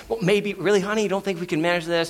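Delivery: gently lobby for a yes; hopeful pleading. Retold or imitated. Dad asking his wife if they can manage, hopeful pleading.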